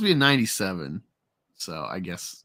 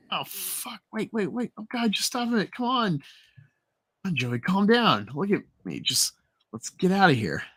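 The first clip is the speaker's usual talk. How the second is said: scared pleading; 5 semitones higher than usual. Acted. Hostage pleads with gunman.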